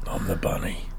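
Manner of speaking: whispered, low and sinister; creepy whisper. Pretend. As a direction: breathe it like a lurking monster. Creepy bunny persona.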